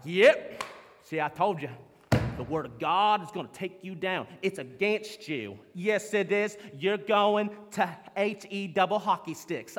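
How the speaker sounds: smug, gloating zealot voice, a burst on "Yep"; hammed-up gloating fundamentalist; mocking Bible thumper. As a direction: lampoon a self-righteous preacher crowing at sinners. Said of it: "some Bible thumpers ... get excited".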